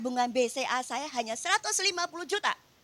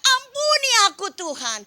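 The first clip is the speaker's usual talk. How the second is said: higher, louder cry for forgiveness; 9 semitones higher, 9 dB louder than usual. Retold or imitated. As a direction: cry out to God while bowing down. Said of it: "saya langsung sujud teriak". (berseru keras memohon ampun)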